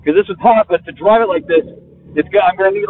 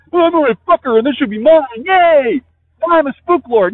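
a mock gloating voice, lightly put on, higher; Roy Scheider impression; 6 semitones higher than usual. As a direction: sneer it like a smug fool. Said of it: "this is my Roy Scheider impression".

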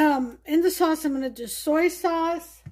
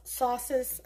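New York accent; 4 dB quieter than usual. Real, not acted. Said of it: "like my New York accent came out there".

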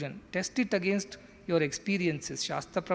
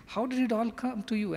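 higher, fast reproach; mild mock scold; 6 semitones higher, faster than usual. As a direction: fire the question at him quickly. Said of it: "he straight away scolds him".

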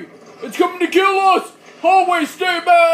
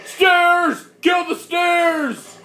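battle cry; much slower than usual. Pretend. Yelling battle cry in game.

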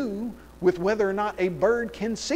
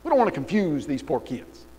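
high, louder, mock-reasonable excuse; mock textbook writer; 5 semitones higher, 5 dB louder than usual. Mocking the textbook writer's excuse to the class, high and loud. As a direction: play the author shrugging off the lie. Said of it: "He said".

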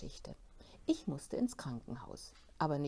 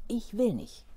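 shouting refusal; 4 semitones higher, 6 dB louder than usual. Acted. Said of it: "schrie ich".

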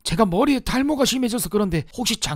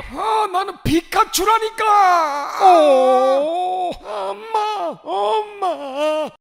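very high, stretched-out cry; pained wailing scream; 7 semitones higher, much slower than usual. Acted. Customer getting the wrong tattoo painfully, screaming high. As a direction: howl it out, then wail for mother.

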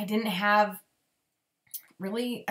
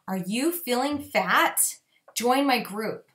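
slow, baiting sales line; a cheesy coach fishing for sign-ups; mock salesy pitch; much slower than usual. A coach mocking bad posts, slow cheesy sales pitch. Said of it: "That's horrible".

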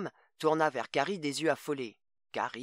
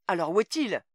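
alarmed demand; 7 semitones higher, 7 dB louder than usual. Acted. Mother fears for her son.

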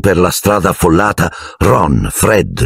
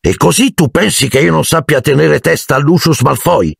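higher, affronted question; indignant; 10 semitones higher than usual. A narrator's reading. Mr Weasley answering his wife, higher and indignant. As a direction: bristle at the doubt. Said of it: "chiese il signor Weasley indignato".

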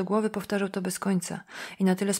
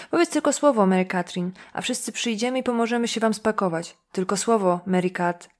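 mock helpful; 3 dB louder than usual. Jim Donnell taunts Mary Catherine about moving, mockingly loud. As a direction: tease her with false kindness. Mocking offer to help pack.

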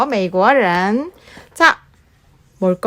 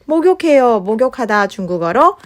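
아이에게 말하듯. Acted. Teaching toddler sing-song.

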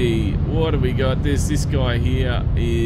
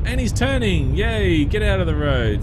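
excited; 3 semitones higher, 4 dB louder than usual. Real, not acted. Cheering traffic clearing in game.

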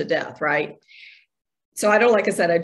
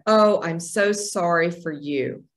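pitying; 3 semitones lower, slower than usual. Retold or imitated. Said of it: "the worst thing anybody could say".

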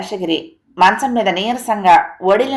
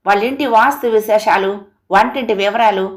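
understated shout, higher at start and end; angry outburst; 3 semitones higher than usual. Acted. Husband fed up with wife's details, mild mock yell. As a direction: snap at her in acted annoyance. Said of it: "పెద్దగా అరిచాడు".

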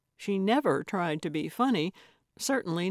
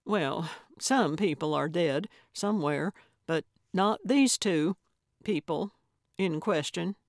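less definitive. Acted. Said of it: "then added less definitively".

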